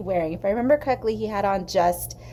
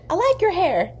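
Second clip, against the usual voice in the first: higher, louder voice for the waitress; gruff Midwestern waitress; 9 semitones higher, 4 dB louder than usual. Retold or imitated. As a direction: play the tough diner waitress sizing her up. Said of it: "big, gruff Midwestern women".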